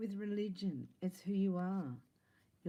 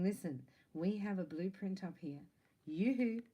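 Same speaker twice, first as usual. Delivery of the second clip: higher self calling; 3 semitones higher, 3 dB louder than usual. Pretend. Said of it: "This is your higher self going".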